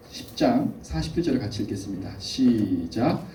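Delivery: usual speaking voice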